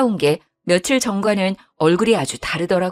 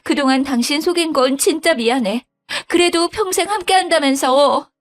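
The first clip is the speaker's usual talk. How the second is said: higher, lightly tearful pleading wife; mildly tearful wife; 9 semitones higher than usual. Acted. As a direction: plead like a clinging child, a touch of tears. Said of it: "어린애처럼 엉엉 울었죠". (살짝 울먹이며 매달리는 며느리)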